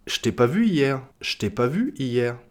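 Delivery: "je t'ai" squeezed into "ch't'ai"; je contracted to ch. Shown as a demonstration. Teacher previewing a later rule, "je t'ai" said "ch't'ai". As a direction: say "je t'ai pas vu hier" as "ch't'ai pas vu hier". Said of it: "il y a d'autres règles qu'on verra plus tard".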